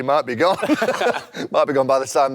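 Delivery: chuckling through the line; laughing. Real, not acted. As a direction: laugh as you joke. Joking the manager will be sacked.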